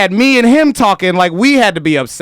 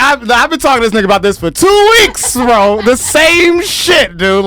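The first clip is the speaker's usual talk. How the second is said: raised, high, agitated ranting; venting to James, worked up and louder; heated complaint; 8 semitones higher, 4 dB louder than usual. Real, not acted.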